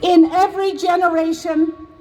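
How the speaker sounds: measured, solemn reading of a historic proclamation; formal proclamation reading. Shown as a demonstration. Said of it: "to now read the proclamation".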